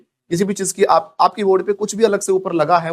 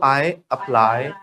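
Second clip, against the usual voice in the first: I apply said very slowly; slow dictation; 3 semitones lower, much slower than usual. Shown as a demonstration. Teacher dictating slowly for students to repeat. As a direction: spell it out slowly for the class. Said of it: "बोलो".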